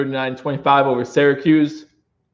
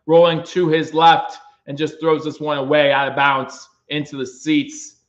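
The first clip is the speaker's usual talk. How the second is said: play-by-play call; 3 semitones higher than usual. Acted. Fan streamer calls the game.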